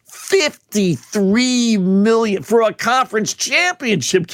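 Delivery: "Fifty-three million" drawn out slowly; slow, incredulous weight on "Fifty-three million"; amazed emphasis. Real, not acted. Host repeats the huge figure, amazed.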